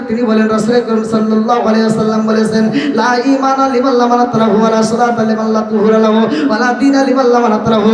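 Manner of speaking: fast, fluent hadith quoting; brisk, evenly running recital; rapid recitation. Real, not acted. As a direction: rattle off the Arabic without a break.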